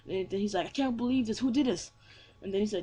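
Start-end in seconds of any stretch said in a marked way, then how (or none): 0.7-1.9 raised, incredulous questioning; mock disbelief. Hero demanding who hurt his grandpa, disbelieving. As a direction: lift the voice in acted disbelief.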